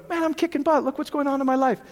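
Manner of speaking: upbeat self-talk. Pretend. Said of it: "Versus going".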